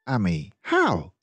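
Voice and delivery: put-on high, pleading child's voice; little boy begging to know; insistent child. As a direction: push for an answer like an impatient kid. Boy presses his mother.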